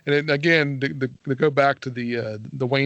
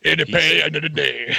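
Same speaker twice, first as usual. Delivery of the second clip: garbled, mush-mouthed country mumble; mock unintelligible rural accent; thick country accent. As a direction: imitate a hard-to-understand thick accent. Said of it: "has a really thick accent".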